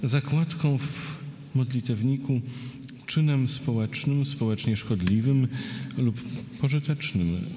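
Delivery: verse read phrase by phrase; poetry reading. Acted. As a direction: read a list poem with pauses between images. Poet reads a poem. (czytanie wiersza, z pauzami)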